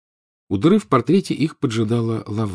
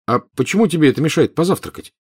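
puzzled; 7 semitones higher than usual. Acted. Harry's puzzled question.

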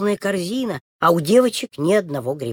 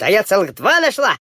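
excited call; 4 dB louder than usual. Acted. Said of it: "Тамарочка кричит".

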